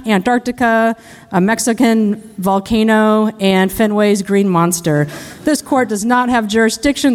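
defense lawyer impression. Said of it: "impression of a criminal defense lawyer".

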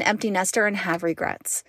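soft sincere whisper; real whisper about regrets. Real, not acted. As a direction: confide it under your breath. Quiet confession.

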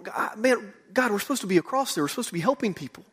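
mild venting that tails off; mildly frustrated. Retold or imitated. Stranded mission worker venting about being stuck across the river, mildly frustrated. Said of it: "I mean, really frustrated".

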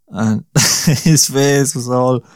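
slow words broken by real laughter; giggling through the line; laughing. Real, not acted. Vlogger telling of the lost nose, laughing. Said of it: "I don't know why I'm laughing".

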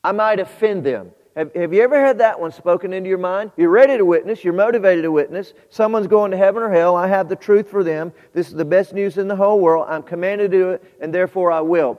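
eager witness voice. Acted. Preacher acting out a believer eager to witness, loud and driven. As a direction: push it forward like a ready witness.

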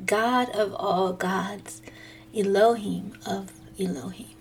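whispering. Acted. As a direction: breathe it softly in awe. Worship phrase drops to whisper.

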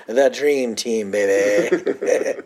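slow, drawn-out hammed-up boast; mock proud boast. Nandor bragging about the Dream Team, slow hammed-up boast. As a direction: savour it like a proud fan.

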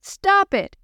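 high shout at the storm. Acted. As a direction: yell it up high and loud. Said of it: "he shouted at the storm".

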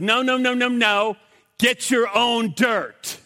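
wag a finger, punchline; mock indignant God. God in the joke stopping the scientist, mock indignant.

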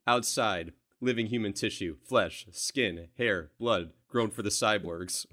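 lightly acted, terse list of fragments; Kyle Reese script reading. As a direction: recite it in short, separated phrases. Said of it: "the script is literally sentences".

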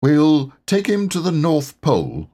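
Rabbit's eager plan, lightly voiced. A narrator's reading. Rabbit proposing the plan to friends, lightly voiced and eager. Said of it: "said Rabbit".

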